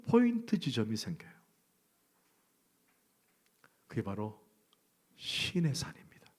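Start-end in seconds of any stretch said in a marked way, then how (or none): 5.2-6.3 slow, whispered reveal; slow, hushed reveal for emphasis. Shown as a demonstration. Preacher revealing Mount Sinai to the congregation, slow and hushed.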